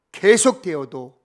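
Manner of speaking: normal talking voice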